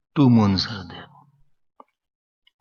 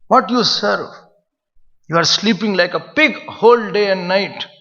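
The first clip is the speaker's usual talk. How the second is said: hard scolding; 3 semitones higher, 4 dB louder than usual. Retold or imitated. Ashram master scolding a lazy disciple, growing loud. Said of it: "very hard words are spoken then".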